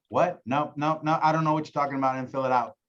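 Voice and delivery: irritated prospect cutting off a telemarketer; annoyed brush-off. Retold or imitated. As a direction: rattle it off like you want to hang up.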